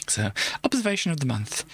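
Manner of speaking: hushed breathy whisper. Shown as a demonstration. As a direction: whisper the heading dramatically. Rereads heading in a whisper.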